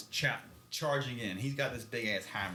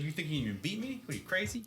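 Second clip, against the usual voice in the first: a lightly played taunt, rising higher; mocking taunt; 5 semitones higher, faster than usual. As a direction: sneer at him, daring him to fight. Abaddon taunts Loken to fight.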